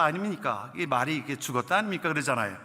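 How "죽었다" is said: a hint of Gyeongsang dialect, blunt; lightly voiced Gyeongsang accent. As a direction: say it short, Gyeongsang style. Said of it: "경상도 반들은 뭐라 그래요". (경상도 사투리 흉내)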